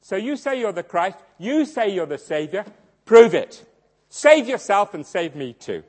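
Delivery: scornful jeer, loud on prove it; a criminal taunting Jesus, loud on prove it; mocking taunt. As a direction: sneer at him from the cross. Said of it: "one of them began to mock Jesus".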